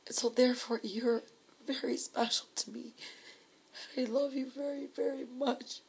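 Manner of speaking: real tears, voice pitched slightly up; tearful. Real, not acted. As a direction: choke out a heartfelt declaration of love. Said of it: "I'm sorry, I'm crying".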